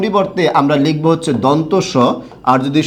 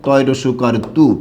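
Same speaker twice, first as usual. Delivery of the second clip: slow spelling out; 2 semitones lower, slower than usual. Shown as a demonstration. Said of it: "এটার উচ্চারণ কি হবে?".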